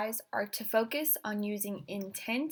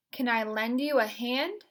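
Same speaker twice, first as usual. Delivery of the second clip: intense delivery. Shown as a demonstration. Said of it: "using that vocal intensity".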